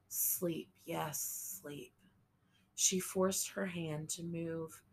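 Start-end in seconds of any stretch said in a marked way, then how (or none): 0.1-1.9 fading murmur. A narrator's reading. Mother drifting toward death.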